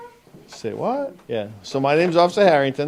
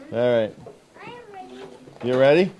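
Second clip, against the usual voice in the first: normal talking voice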